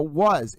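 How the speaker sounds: "was" set apart with weight; inflection on WAS. Shown as a demonstration. Host pointing out the inflection, stressed WAS. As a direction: lean on the word WAS. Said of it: "It goes up".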